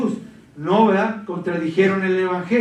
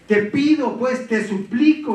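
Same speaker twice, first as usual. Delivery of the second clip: fervent pleading; 5 semitones higher than usual. Acted. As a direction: implore them with urgency. Preacher pleads with the congregation.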